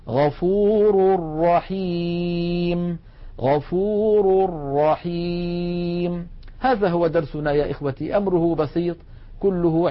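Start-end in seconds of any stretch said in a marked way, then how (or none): 0.1-6.3 غفور رحيم chanted slowly, tanween turned into a doubled r, long final vowel; tanween merged into ra. Shown as a demonstration. Teacher demonstrating tanween before ra, chanted doubled r in غفور رحيم. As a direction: join غفور to رحيم on a strong r and draw out the ending. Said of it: "ومثال التنوين عند الراء".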